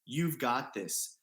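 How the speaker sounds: slow, firm and steady; stern, confident. Retold or imitated. Girlfriend backing him at the wall, slow and firm. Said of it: "a very stern and confident".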